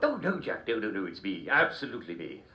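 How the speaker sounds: hammed-up mad King George. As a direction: play a daft old king. King character speaks.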